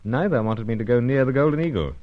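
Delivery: wry first-person narration over music; the hero looking back on his mission; story narration. A narrator's reading.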